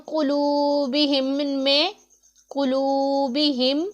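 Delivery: कुलूबिहिम with a thick, heavy qaf and a long u; कुलूबिहिम with a thick qaf and a lengthened u. Shown as a demonstration. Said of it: "काफ हमारा पुर पढ़ा जाने वाला".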